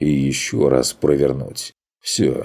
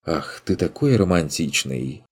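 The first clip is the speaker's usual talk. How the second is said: languid fairy voice. Acted. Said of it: "томный голос фейки".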